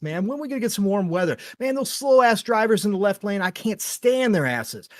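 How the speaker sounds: a hammed-up whiny rant about weather and traffic; mock griping. Mock-griping reply to a friend's greeting, a touch exaggerated. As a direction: grumble like a fed-up commuter, mostly in your own voice.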